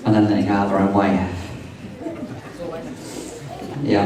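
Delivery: wedding toast speech. Acted. Groom reads wedding speech.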